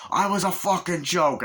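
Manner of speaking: a mock bitter exit line; bitter outburst. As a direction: throw it out high and hurt. Michelle Pfeiffer storming off.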